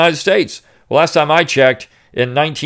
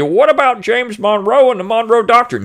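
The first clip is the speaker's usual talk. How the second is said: mocking objector; 9 semitones higher than usual. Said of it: "the retort will be".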